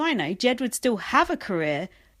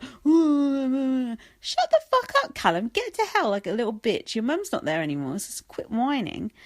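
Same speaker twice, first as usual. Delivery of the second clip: mocking a housemate's snarl; 4 semitones higher than usual. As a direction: sneer it out, dragging each word. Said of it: "He's like".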